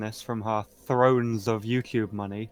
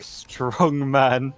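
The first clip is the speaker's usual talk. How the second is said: laughing through the words, louder; 5 dB louder than usual. Real, not acted. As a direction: chuckle it out mid-boast. Joking about own muscles.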